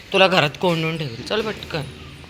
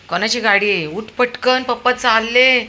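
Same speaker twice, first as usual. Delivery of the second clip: high, loud urging to get up; urgent calling; 8 semitones higher, 6 dB louder than usual. Real, not acted. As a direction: rouse the dog with an excited call. (उत्साहाने मोठ्याने हाक)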